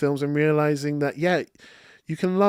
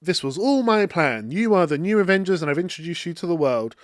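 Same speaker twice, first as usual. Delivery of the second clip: gloating villain; 4 semitones higher than usual. Retold or imitated. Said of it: "she's like".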